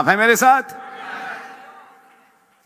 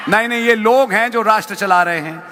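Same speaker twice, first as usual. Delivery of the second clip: rapid-fire preaching; much faster than usual. Real, not acted. Preacher rebuts the congregation heatedly.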